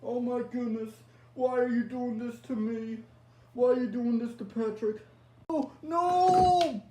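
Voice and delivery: loud, high begging ending in a scream; plead, then scream; terrified plea. Acted. Pleading with killer, last scream.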